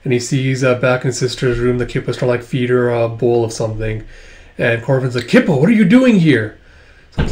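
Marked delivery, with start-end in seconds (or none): 5.3-6.6 higher-pitched startled question; acted surprise. Corvin finding Kippa in his sister's room, surprised. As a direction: voice Corvin caught off guard.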